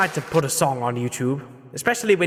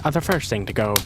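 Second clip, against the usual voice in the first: low sly villain voice; grinning Grinch; 4 semitones lower, faster than usual. Acted. Grinch gloating over the stockings, low and sly. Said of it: "he grinned".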